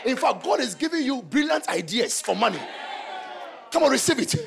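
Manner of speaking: high, loud repeated chant; preacher rousing the congregation; preaching shout. Real, not acted. Preacher leading congregation in declaration.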